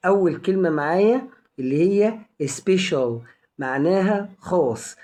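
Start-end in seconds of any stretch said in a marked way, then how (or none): 2.4-3.1 "special" with its C pronounced as a clear SH. Shown as a demonstration. Teacher showing learners the first word, C as SH in "special". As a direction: say "special" with SH in the middle. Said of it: "بتنطق شين".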